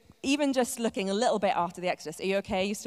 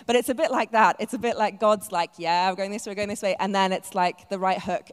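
building to a punch; 8 dB louder than usual. Acted. Boxing metaphor, building punch.

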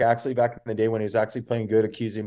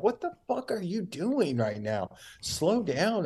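retold scolding; 7 semitones higher, 5 dB quieter, slower than usual. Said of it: "but I'm like".

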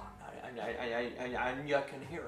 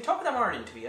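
Irish catchphrase; 2 semitones higher, faster than usual. Shown as a demonstration. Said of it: "But I just think".

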